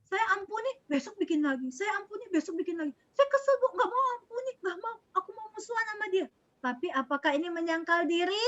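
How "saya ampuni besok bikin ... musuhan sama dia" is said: put-on high, whiny child near tears, rushing at the end; imitating a whiny child. Teacher acting a child who refuses to forgive, high whiny complaint. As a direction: play a child sulking to the teacher, close to crying. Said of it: "Tidak mau mengampuni temannya".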